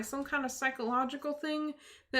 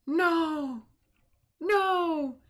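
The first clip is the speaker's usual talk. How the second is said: horrified cry; 4 semitones higher, 5 dB louder than usual. Real, not acted. Horrified reaction to the twist.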